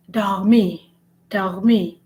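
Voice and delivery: dormir with a throaty French R. Shown as a demonstration. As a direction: stress the R in dormir. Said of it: "The French R is very distinct".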